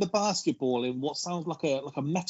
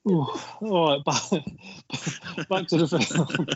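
laughing; 2 semitones higher than usual. Real, not acted. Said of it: "catch your breath".

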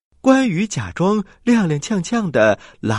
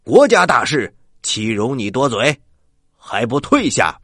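stern raised voice; loud. Acted. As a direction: bark the order to back off. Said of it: "大声地说".

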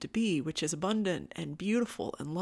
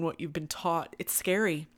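ordinary talk

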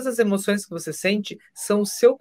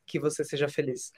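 gentle wish; 3 semitones lower, 7 dB quieter than usual. Retold or imitated. Kind self-talk example.

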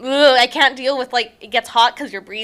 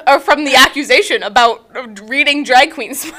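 loud teasing; 5 dB louder than usual. Real, not acted. Teasing loud follow-up question.

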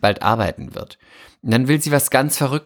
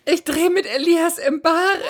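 much higher, laughing and squealing; excited laughing. Real, not acted. Tells friend she films with her crush, giggly squeal. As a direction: burst out with the big news. Announces dream co-star.

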